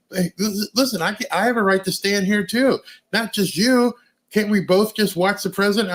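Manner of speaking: a lightly voiced girl asking to stand there; pleading girl.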